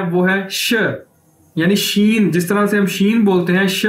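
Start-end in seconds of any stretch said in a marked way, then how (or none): 0.5-0.7 "श" like the letter sheen, sh with a short vowel; Chinese X sound. Shown as a demonstration. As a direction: say "श" as a plain sh sound. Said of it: "इसकी pronunciation क्या है".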